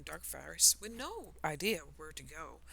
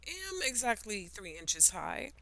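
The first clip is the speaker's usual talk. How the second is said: insulted; 6 semitones higher, 4 dB louder, slower than usual. Acted. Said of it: "The caterpillar was insulted".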